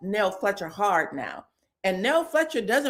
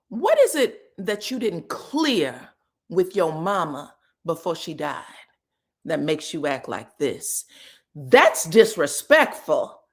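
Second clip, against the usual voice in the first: leaned into it. Retold or imitated. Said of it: "she leaned into it".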